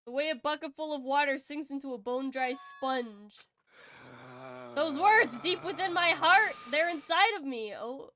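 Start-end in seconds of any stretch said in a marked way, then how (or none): 4.7-7.7 lightly higher, louder fired-up vow; hero voice. Acted. Transformed hero swears to his friends, fired up. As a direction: declare it from the heart.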